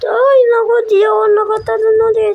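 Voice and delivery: upset cry. Real, not acted. Missed jump, cries out.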